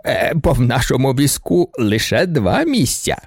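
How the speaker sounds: lightly sweetened, slow baron's voice; a hint of sugary baron; sweet voice. A narrator's reading. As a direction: coax it out sweetly and slowly. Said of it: "солодким голосом почав барон".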